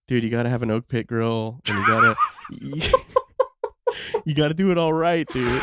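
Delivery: laughing while retelling; laughing through it. Retold or imitated. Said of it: "telling you back in the day".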